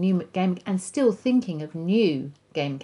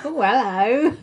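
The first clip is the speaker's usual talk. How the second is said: put-on elderly singsong; 5 semitones higher, 6 dB louder, slower than usual. Flirty femme fatale voices.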